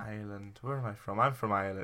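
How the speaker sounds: tentative try at an Irish accent; lightly faked Irish accent; attempted Irish accent. Shown as a demonstration. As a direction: feel your way into an Irish accent. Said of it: "Matt, can you do it?".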